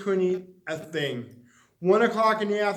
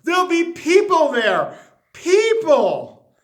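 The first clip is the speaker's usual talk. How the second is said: louder, much higher alarm at people; panicked; 9 semitones higher, 8 dB louder, slower than usual. Acted. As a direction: cry out in fright at the thought. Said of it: "frightened Little Miss Shy".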